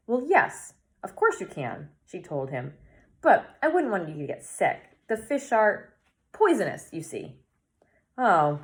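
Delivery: measured read-aloud storytelling with lively dialogue; story narration. A narrator's reading. Reader telling Harvey's story to viewers, story narration. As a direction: read a children's story, acting the lines lightly.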